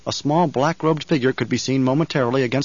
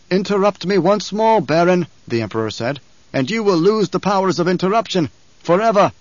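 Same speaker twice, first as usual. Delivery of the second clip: menacing emperor; 6 semitones higher, 4 dB louder than usual. A narrator's reading. Emperor threatens Baron.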